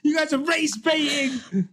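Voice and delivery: laughing mock accusation. Host teasing co-hosts over toxic F1 Twitter, laughing mock scold. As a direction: scold them while cracking up.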